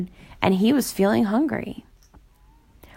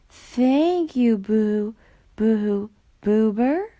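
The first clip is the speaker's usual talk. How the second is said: lightly voiced ghost, stuttering; stammering ghost; much slower than usual. A narrator's reading. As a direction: trip over the name nervously. Ghost stammers Boober's name.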